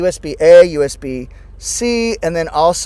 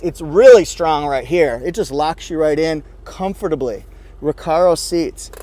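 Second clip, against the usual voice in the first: ordinary talk, nothing marked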